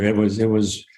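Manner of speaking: real stammer, words repeating. Real, not acted. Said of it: "I'm kind of stammering a little bit".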